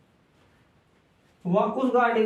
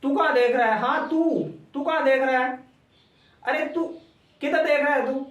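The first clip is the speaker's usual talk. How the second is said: raised, higher voice, sharp call-out; scolding a student; 4 semitones higher than usual. Real, not acted. Teacher scolding a distracted student.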